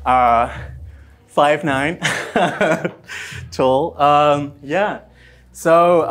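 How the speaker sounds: panting, out of breath from dancing. Real, not acted. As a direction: talk while still catching breath. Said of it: "I'm completely out of breath".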